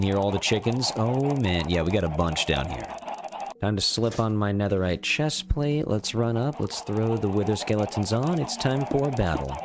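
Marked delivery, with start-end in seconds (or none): none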